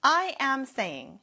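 very slow, each word set apart; slow model sentence. Shown as a demonstration. Teacher modelling I am saying for students, very slow. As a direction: spell it out word by word for learners. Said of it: "현재 진행형을 표현하고 싶을 때는".

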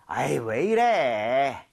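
mild annoyed whine. Shown as a demonstration. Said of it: "이런 느낌이 될 수도 있고".

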